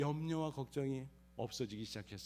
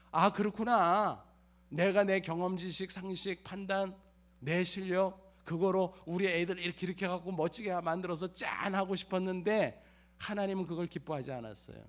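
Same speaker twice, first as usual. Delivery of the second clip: sudden realization; 3 semitones higher than usual. Retold or imitated. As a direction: let it hit you all at once.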